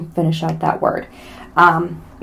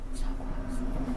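barely audible whispered plea; 13 dB quieter than usual. Pretend. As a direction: let it fade into a whisper. Repeats the plea, fading to whisper.

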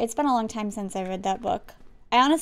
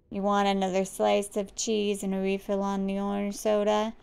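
bored server. Acted. Worker offering a refill, bored.

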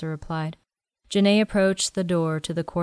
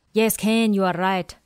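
put-on quirky old man; 2 semitones higher than usual. Willie speaking.

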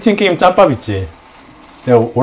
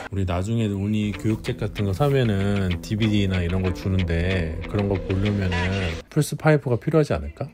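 quiet, hushed speech; 8 semitones lower, 10 dB quieter than usual. Real, not acted. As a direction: keep it down so nobody wakes. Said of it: "조용히 해".

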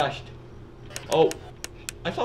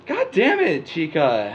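frustrated yell; 3 semitones higher, 7 dB louder than usual. Real, not acted. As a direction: curse the enemy out loud. Yelling at animatronic in game.

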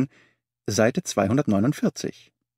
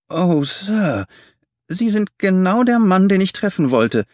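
eager, high cry of relief; cried out; 9 semitones higher, 5 dB louder than usual. Acted. Little man crying out to Holmes, eager. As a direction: burst out, overjoyed to be found. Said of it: "rief der kleine Mann".

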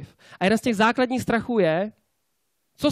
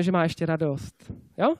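usual speaking voice

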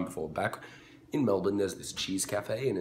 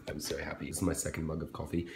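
whispering; 3 semitones lower, 5 dB quieter, faster than usual. Real, not acted. Quiet aside over morning coffee.

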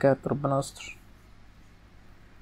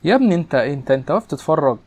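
frustrated yell; 2 semitones higher, 5 dB louder than usual. Real, not acted. Gamer yelling at his footballer on screen, loud frustrated shout. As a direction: yell at the player to get moving.

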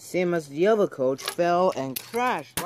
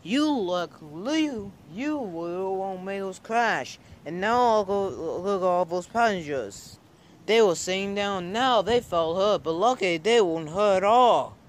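cross driver; 4 semitones higher than usual. Acted. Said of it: "He looked very cross".

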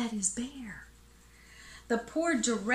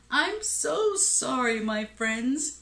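higher, gently apologetic storybook voice; sad elephant; 4 semitones higher than usual. A narrator's reading. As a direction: apologize with mild, acted sadness. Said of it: "said the elephant sadly".

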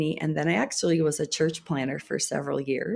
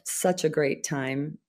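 dry sarcasm, slowed and softer; sarcastic; 5 dB quieter, slower than usual. Real, not acted. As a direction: say it slowly with quiet irony. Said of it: "I say sarcastically".

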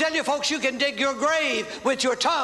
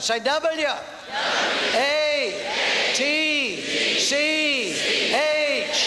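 each letter called out separately; letters called out slowly, one at a time; spelling it out; much slower than usual. Shown as a demonstration. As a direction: spell the word letter by letter for the crowd. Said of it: "Let's all spell it".

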